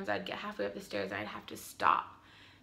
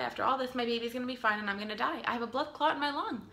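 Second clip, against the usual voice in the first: retold fear, higher and urgent; mock panic; 4 semitones higher, faster than usual. New mother recalling her fear in hospital, mild panic. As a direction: replay the dread of dying, lightly. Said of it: "I was thinking".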